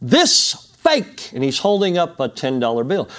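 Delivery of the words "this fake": very high-pitched, alarmed male yelling. Retelling a man running across the building holding up a bill, retelling his shout. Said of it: "he's shouting".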